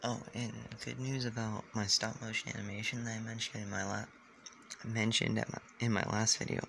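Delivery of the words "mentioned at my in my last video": voice crack. Real, not acted. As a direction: voice cracking mid-sentence. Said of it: "voice crack".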